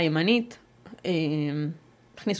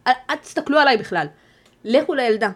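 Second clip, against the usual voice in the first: louder, pleading retold shout; urgent shout; 6 semitones higher, 6 dB louder than usual. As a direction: send the neighbours to the child, urgently. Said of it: "אמרתי להם". (צעקה דחופה ומתחננת, קולנית יותר)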